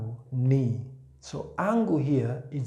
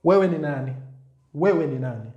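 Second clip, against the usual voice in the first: blunt, louder "Wewe ni nani?"; harsh question; 5 dB louder, faster than usual. Shown as a demonstration. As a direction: demand it bluntly. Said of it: "this might seem pretty harsh".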